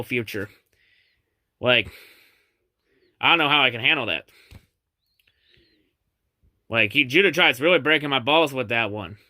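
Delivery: fake-contrite, low and quick, like the taunt really stung; mock being deeply shaken by the rival's boast; sarcastic mock humility. To Judah, sneering at his claims, mock-wounded sarcastic mumble.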